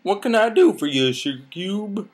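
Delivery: lightly put-on character voice; pony character voice. Applejack greeting her friend Twilight, lilting character voice. Reader voicing Applejack's dialogue.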